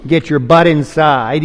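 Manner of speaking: mock a father pulling rank; hammed-up stern father, slow and loud; bossy father. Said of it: "He doesn't talk like that".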